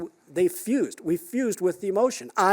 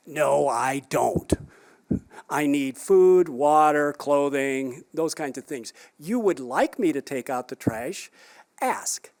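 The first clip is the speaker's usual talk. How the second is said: cheeky retort; 3 semitones lower, slower than usual. Retold or imitated. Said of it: "my wife is really good at".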